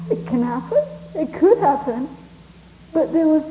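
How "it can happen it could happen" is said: laughing near tears. Real, not acted. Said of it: "didn't know whether to laugh or cry".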